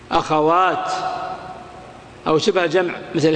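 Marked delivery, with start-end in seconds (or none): 0.1-0.9 "أخوات" ending on a clear t; pause on ta. Shown as a demonstration. Teacher giving a plural example, final t. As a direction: stop on the t of "أخوات". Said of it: "وقفت عليها بالتاء".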